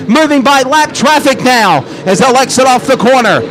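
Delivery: fast race-call commentary; live play-by-play. Real, not acted.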